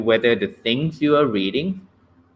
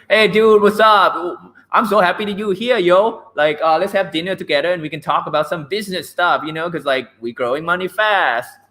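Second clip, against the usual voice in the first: casual buddy intonation; 6 semitones higher than usual. Shown as a demonstration. Teacher demos greeting a friend over dinner, casual and excited. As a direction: sound like you're hyped to see your friend. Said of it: "That's another kind of intonation".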